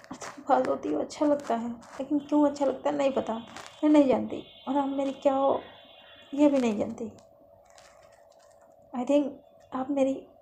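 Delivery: flustered confession. Acted. Lovely admitting she likes her friend near, flustered. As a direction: blurt it out, mildly defensive.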